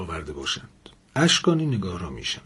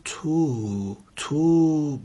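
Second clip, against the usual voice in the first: suspicious; 3 semitones higher, much slower than usual. Acted. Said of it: "لاله مشکوک گفت".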